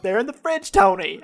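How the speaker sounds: half-committed TV wife impression; rough Carmela impression. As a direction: answer as the put-upon wife. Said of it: "I can't do any impressions".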